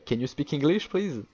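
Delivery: put-on English with a thick French accent, rising on please. Tourist asks the Berlin cashier in English, French-accented and eager. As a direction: ask politely in proud but clumsy French-accented English. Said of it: "Avec mon bel accent et tout".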